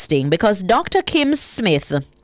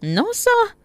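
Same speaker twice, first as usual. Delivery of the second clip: mock disbelief; 12 semitones higher than usual. Real, not acted.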